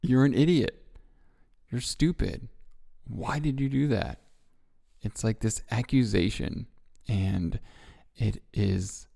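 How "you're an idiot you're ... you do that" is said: a touch of a sneering inner critic; mock self-scolding. Speaker voicing the thought after hitting your knee, mild mock scolding. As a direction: snap at yourself after banging a knee. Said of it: "the first thought that pops into your head is something like".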